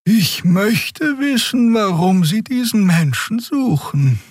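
very high, slow musing alien voice; slow high pondering; thinking aloud. A narrator's reading. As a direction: wonder aloud in the Draxül voice. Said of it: "überlegte Xea laut".

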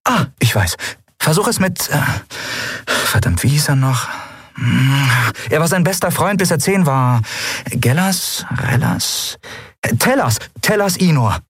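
put-on a young woman fumbling, then landing on it; Lien, eagerly remembering. A narrator's reading.

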